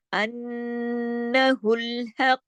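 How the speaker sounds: अन्नहुल with a long hummed nn; slow, steady nasal recitation; big ghunnah. Shown as a demonstration. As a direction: hold the nn of अन्नहुल through the nose before हक़. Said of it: "कितना बड़ा गुन्ना हो रहा है".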